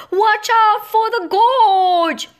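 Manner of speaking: high, loud, slow warning shout; loud, high alarmed shout. A narrator's reading. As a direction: yell to stop a fall. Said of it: "and shouted".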